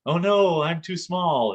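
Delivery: high-pitched mock German accent; terrible German accent. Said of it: "in German accent. That's my terrible German accent".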